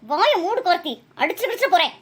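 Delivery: cross, scolding mother; angry threat. Acted. Mother silencing her son Karthik, angry threat. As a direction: cut him off with an angry warning. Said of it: "ஏமா இவ்ளோ கோவப்படுறீங்க".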